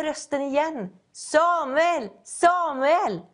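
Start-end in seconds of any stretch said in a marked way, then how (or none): 1.1-3.2 higher-pitched call, each name falling away; calling out Samuel's name. Acted. God calling the sleeping boy Samuel, a raised call. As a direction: call his name across the dark room.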